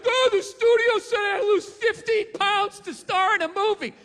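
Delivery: high, loud mock whine; whiny complaint. Actress complaining about losing weight, high mock whine. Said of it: "it's like".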